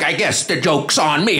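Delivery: slow, theatrical exit line; indignant old actress. Retold or imitated. Older actress storming out, melodramatic. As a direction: draw it out as a wounded diva leaving. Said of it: "This lady just goes off".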